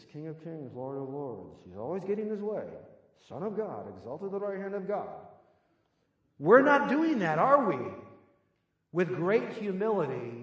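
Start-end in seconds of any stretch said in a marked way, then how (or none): 0.1-5.1 muttering under one's breath, faster. Speaker acts out having to follow Jesus, mumbling under breath. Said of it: "I'm mumbling under my breath".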